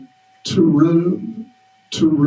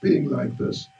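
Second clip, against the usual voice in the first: chastising; 5 semitones higher than usual. Acted. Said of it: "came and chastised Hanuman".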